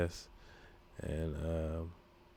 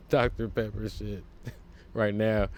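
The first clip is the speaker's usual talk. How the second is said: laughing; 2 semitones higher than usual. Real, not acted. Laughing while telling a story.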